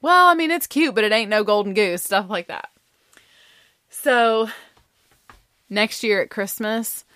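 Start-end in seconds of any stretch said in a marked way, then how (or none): 0.0-2.0 mock-grudging folksy put-down; running-joke quip.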